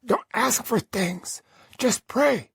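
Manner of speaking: slow instruction. Acted. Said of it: "Dan said".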